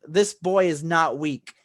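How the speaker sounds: slow, weighty declaration; emphatic declaration. Retold or imitated. Rengoku defends the boy to his attacker, slow and emphatic. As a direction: stretch it out firmly.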